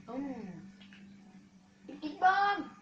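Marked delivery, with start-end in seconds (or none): 1.9-2.7 loud, high shouted call of the stunt; hyped catchphrase shout. Real, not acted. Gamer shouting his stunt name to viewers, loud and high. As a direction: yell the catchphrase with glee.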